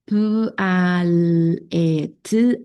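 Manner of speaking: "P, A, L, E, T" fonema por fonema con pausas; sonidos sueltos. Shown as a demonstration. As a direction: separa cada sonido de "paleta". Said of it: "enlazando los sonidos que se le van dando". (sonidos aislados que el niño debe enlazar)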